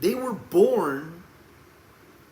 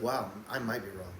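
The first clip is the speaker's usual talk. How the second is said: humble admission; 5 semitones lower, 9 dB quieter than usual. Acted. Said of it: "the only way to do that is in a humble spirit".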